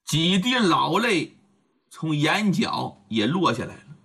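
usual speaking voice

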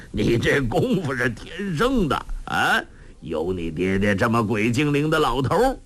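a short laugh, then fond joking talk; laughing old man. Acted. Old master laughs and teases his clever pupil, laughing. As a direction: chuckle and tease her good-naturedly. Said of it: "洪七公笑道".

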